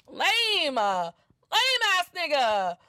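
drawn-out, high-falling put-down; scornful dismissal. Real, not acted. Woman judging the man's fake check-in, scornful. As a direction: stretch the words out with scorn. Scornful verdict on his sexting.

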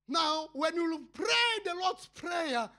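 rising preacher's shout; preaching shout. Real, not acted. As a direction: call it out to the congregation.

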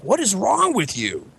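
high, drawn-out mock exasperation; appalled parent. Parents reacting to their yelling son, appalled.

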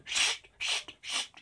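urgent unvoiced shushing; hushing. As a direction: shush the child quickly. Hushing the child in church.

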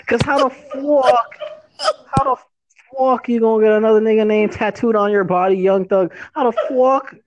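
loud, high outraged disbelief; incredulous rant. Real, not acted. Ranting about tattoo.

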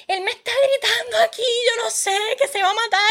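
high, frantic whisper-like pleading; telling her cousin in panic he'll kill himself; panicked retelling. Retold or imitated. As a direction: sound scared out of your mind. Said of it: "Y yo".

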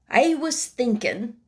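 put-on old gardener's Yorkshire voice; Ben Weatherstaff, Yorkshire old man. Old Ben replying to the boy, Yorkshire voice. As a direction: answer as a plain-spoken old Yorkshireman.

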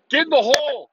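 high, hammed-up fan cry; mock spectator yell. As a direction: squeal it like an annoying golf fan. Mocking golf crowd yell.

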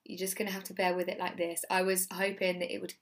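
hoarse, husky voice from losing it; lost voice. Real, not acted. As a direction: voice nearly gone, rough and husky. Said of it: "so I still have this man voice".

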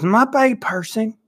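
high, slow mumbled Brett imitation; mock Brett, slurring it out; mimicking Brett. Friend quoting Brett's drunk greeting, high and slow. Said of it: "he goes".

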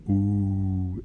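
long sustained "uuuh"; mock jeering hoot, held on one note; drawn-out teasing "uh"; group jeer. A narrator's reading. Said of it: "Todos gritaron".

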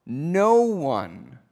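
"no one" drawn out, set apart by pauses; stress on "no one". Shown as a demonstration. Preacher reading a verse to show emphasis, stress on "no one". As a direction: isolate "no one" with weighty pauses. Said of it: "these words that I'm stressing".

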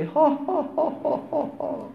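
high, hammed-up guffaw; mock loud laugh. Preacher mocks the rowdy crowd with a high hammed-up laugh. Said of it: "علي صوتك بالضحكة".

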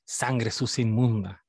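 low, slow quoted insult; Draco's insult. Retold or imitated. Retelling Draco insulting Hermione, mock insult. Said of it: "cuando Draco le dice".

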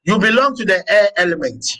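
measured dictation. Acted. Dictates dates and elements to the class.

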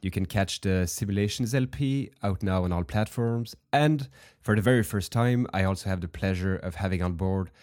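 hoarse voice from a heavy cold; sick voice. Real, not acted. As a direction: talk through a stuffy, sick throat. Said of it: "you can probably hear that in my voice".

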